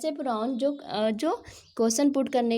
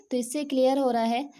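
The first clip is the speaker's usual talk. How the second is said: ordinary talk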